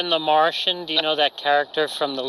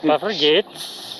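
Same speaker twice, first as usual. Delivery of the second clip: Elias impression; slower than usual. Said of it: "can you do Elias".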